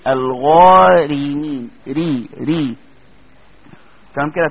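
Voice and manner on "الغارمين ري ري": الغارمين drawn out very slowly with a light ر; slow tajweed demo of a light ر; light Raa. Shown as a demonstration. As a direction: stretch الغارمين and keep the ر thin. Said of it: "تقول ايه؟".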